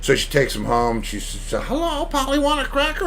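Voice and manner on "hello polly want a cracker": much higher, sing-song coo at a pet bird; high baby-talk for a pet parrot. Retold or imitated. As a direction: coax the parrot like a sweet old lady. Old lady talks to parrot.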